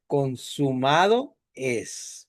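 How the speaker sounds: drawn-out, solemn Consumado es; slow solemn quote. Shown as a demonstration. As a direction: let Consumado es fall slowly, like a final word. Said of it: "cuando dice".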